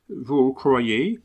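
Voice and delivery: puzzled Englishman's broken French; English accent. Acted. Englishman puzzled that the dog ignores him, English accent. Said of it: "l'accent anglais".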